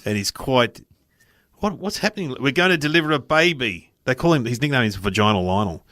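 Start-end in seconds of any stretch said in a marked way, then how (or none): 1.6-3.9 higher, mock-urgent doctor opening; intense obstetrician. Obstetrician facing a delivery, intense. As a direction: imitate a full-on baby doctor, pitched up. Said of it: "they're quite intense".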